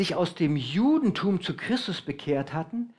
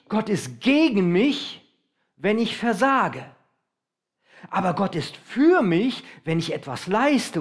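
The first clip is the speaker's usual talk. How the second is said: slow, emphatic inner voice of a fearful believer; voicing the anxious thought; slower than usual. Preacher voices the congregation's fearful thought, slow and emphatic. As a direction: spell out the fearful thought slowly, pressing on versage and für. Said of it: "pass auf, diesen Gedanken kenne ich".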